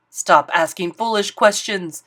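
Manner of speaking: king snapping at Bartholomew. Acted. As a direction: cut the boy off sharply. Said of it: "snapped the king".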